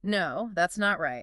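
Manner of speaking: slow, with NOT made strong; stress on NOT. Shown as a demonstration. Teacher asking for a repeat, slowly stressing NOT. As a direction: lean on "not", taking your time. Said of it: "Emphasize not".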